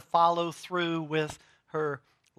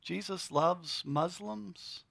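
softer, slow, deliberate with weight on loves; quiet restatement; 3 semitones higher, 6 dB quieter, slower than usual. Shown as a demonstration. Preacher repeats to congregation, quiet and slow. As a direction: say it again gently, letting it land. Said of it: "did that come out of my mouth?".

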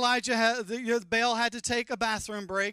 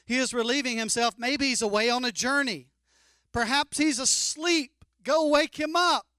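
loud, much higher mocking rant; trash talk; 6 semitones higher, 7 dB louder than usual. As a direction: roast the false god, loud and high. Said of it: "trash talk".

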